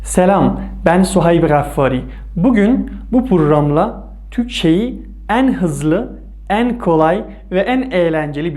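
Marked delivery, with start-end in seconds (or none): 0.0-5.1 loud, slow announcer welcome; program announcer. Acted. Host welcoming viewers to the Turkish program, loud and slow. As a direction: open the show like a broadcast host.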